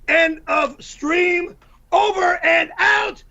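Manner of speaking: slow, shouted tirade, close to tears; angry shouting. Real, not acted. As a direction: yell it as you storm out. Storming off the stream.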